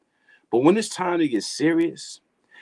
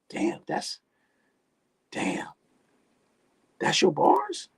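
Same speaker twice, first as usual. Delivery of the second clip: squeaky high disbelief; mocking, high-pitched "that's your bars?"; incredulous; 5 dB quieter, slower than usual. Real, not acted. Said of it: "I heard more profanity than words".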